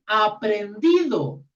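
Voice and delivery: aprendido drawn out very slowly, stretched final o; stressed aprendido. Shown as a demonstration. Teacher underlining the verse's word: slow, stretched aprendido. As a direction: linger on every syllable of aprendido. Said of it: "Acá dice".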